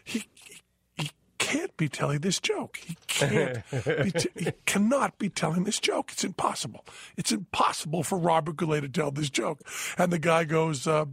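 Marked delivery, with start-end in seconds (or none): 0.0-9.6 1 incredulous whisper. Retold or imitated. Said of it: "And I'm going".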